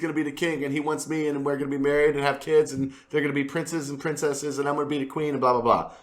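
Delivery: put-on high, swooning starry-eyed girl voice; mock Sansa. Mocking Sansa's crush on the prince, swooning girly voice. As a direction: gush like a smitten young girl. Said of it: "She's like".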